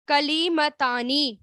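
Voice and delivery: کلیمتانی said slowly, syllable by syllable; teacher sounds out کلیمتانی slowly for the class; slow model word. Shown as a demonstration. Teacher to students, slowly modelling the word. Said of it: "کلیمتانی کیا ہے؟".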